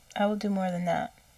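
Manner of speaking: usual speaking voice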